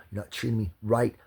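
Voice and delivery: loud furious rant; angry yelling. Real, not acted. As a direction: yell it at the cop. Yelling at the cop.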